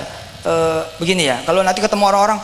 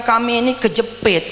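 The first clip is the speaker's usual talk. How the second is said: mock complaining; 5 semitones higher than usual. Shown as a demonstration.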